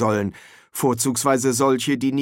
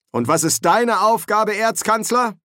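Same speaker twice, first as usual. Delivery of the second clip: sharp question; 10 semitones higher, 4 dB louder than usual. A narrator's reading. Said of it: "fragte der Dekan scharf".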